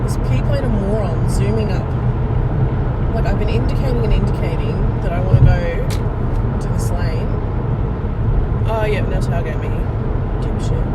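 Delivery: real in-car annoyance; road rage. Real, not acted. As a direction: tell off a bad driver, loud and exasperated. Snapping at other drivers while driving.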